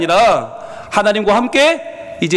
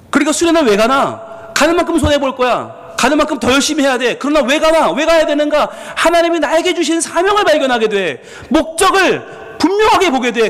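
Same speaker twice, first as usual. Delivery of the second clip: rising preaching fervor; 6 semitones higher than usual. Acted. Pastor exhorting students, building intensity. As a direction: drive the point home with mounting fervor.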